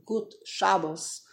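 "Good" said as "gut", then SHA-bos; slow greeting with a T ending "Good" and "Shabbos" stressed first; Yiddish pronunciation. Shown as a demonstration. Teacher quotes the greeting, "Good" said "gut", SHA-bos. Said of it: "good is Yiddish".

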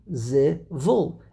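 zivul in two beats, weight on VUL; last-syllable stress. Shown as a demonstration. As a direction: split zivul and land on VUL. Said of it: "emphasis would be on the last syllable".

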